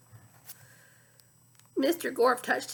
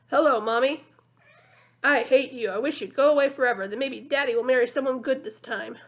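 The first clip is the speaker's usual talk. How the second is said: put-on louder bratty child voice; spiteful child voice; 5 dB louder than usual. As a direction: sneer it like a cruel kid. Villain mimics Joe by phone.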